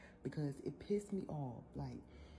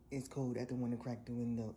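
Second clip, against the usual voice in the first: flat cold brush-off, a little louder; curt refusal with attitude; 4 dB louder than usual. Retold or imitated. Driver refusing her request, curt with attitude. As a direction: mimic his blunt, louder refusal. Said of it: "he said it with a little attitude".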